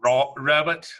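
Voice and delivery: bad Australian take on "Robert", final r dropped; attempted Australian accent. Shown as a demonstration. Host trying to copy guest's pronunciation of the name, attempted Australian accent. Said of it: "my Australian accent's horrible".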